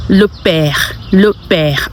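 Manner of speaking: "le père" as "luh pair"; "le père" with an open "eh"; French pronunciation. Shown as a demonstration. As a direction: say "le père" twice for learners. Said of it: "And father is".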